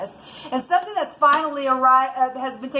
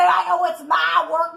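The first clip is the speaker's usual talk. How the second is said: mock shout; 4 semitones higher than usual. Mocks a thief's excuse.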